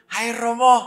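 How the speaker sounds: put-on high, loud child's greeting; schoolchild. Polio boy greets the priest, high child voice. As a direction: pipe up eagerly, high and loud. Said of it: "Saya ketemu anak S D".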